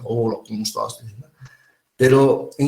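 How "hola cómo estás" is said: lower, softer husky greeting; deep-voiced woman. Teacher imitating a woman with a low voice saying hello. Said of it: "mujeres que tienen voz gruesa".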